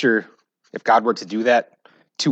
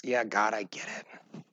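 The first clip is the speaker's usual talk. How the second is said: sheepish reply; 9 dB quieter, slower than usual. Retold or imitated.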